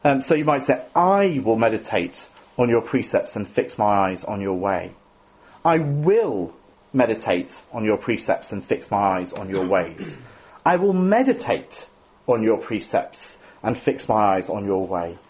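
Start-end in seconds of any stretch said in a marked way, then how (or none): 0.9-4.9 "I" stressed first, rest even. Shown as a demonstration. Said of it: "emphasize a different word". 5.6-10.2 slow, "will" pressed hard; slow read leaning on "will"; stress on WILL. Shown as a demonstration. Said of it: "emphasize a different word". 10.7-15.2 slow, "will" given the weight; "will" carries the line, slowly; stress on WILL. Shown as a demonstration. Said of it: "emphasize a different word".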